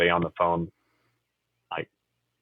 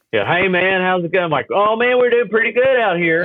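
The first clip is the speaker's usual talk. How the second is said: put-on Kentucky accent on the phone; 10 semitones higher than usual. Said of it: "I snap back into my Kentucky accent".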